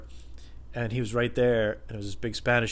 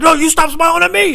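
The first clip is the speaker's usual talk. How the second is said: loud, high screamed comeback; angry screaming; 12 dB louder than usual. Retold or imitated. Customer throwing the demand back, angry screaming. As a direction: imitate a man yelling back while smiling. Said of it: "screaming at each other".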